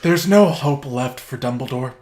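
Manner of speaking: grave, slow trailer-voice storytelling; mock-epic narration. Summarizing Endgame to his cohost as a grim epic saga. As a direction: tell it like a doom-laden epic.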